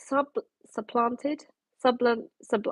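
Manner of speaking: stumbling over words with loose teeth; tripping through, teeth slipping; loose dentures. Real, not acted. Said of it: "I put my teeth back in now".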